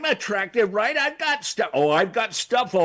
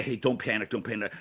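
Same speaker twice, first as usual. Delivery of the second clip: calming; 9 semitones lower, 6 dB quieter than usual. Retold or imitated. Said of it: "I always say".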